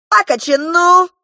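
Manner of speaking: high, loud cheeky clown retort. Acted. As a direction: fire it back like a mocking clown. Клоун дерзко отвечает. (высокий громкий дерзкий выкрик клоуна)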